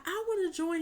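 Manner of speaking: put-on high pleading kid voice; hint of a child begging; mock little Michael. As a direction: ask like an eager little boy. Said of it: "Michael was like".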